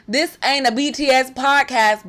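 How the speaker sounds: slow Southern drawl; playful, drawn-out Southern twang; Southern accent. Pretend. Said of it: "do that in a Southern accent".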